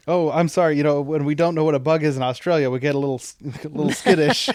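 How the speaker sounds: mild imitation of an Australian tourist, no accent attempted; half-hearted retelling of a nervous Australian tourist; tourist quote, no accent. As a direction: quote the apologetic Australian tourist lightly, voice barely changed. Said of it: "I'm not gonna do the Australian accent".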